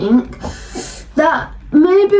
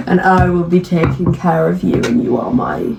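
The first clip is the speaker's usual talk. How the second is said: mock doting parent; 7 semitones lower than usual. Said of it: "when people call their partners baby".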